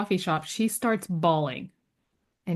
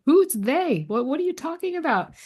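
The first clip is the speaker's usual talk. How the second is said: higher-pitched, incredulous questioning; baffled challenge; 8 semitones higher than usual. Retold or imitated. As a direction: act out demanding an explanation. Retells her baffled challenge to healer.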